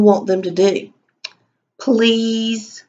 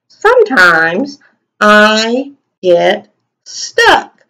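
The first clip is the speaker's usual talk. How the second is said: slow dictation; 5 dB louder, much slower than usual. Shown as a demonstration. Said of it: "teacher dictating while writing".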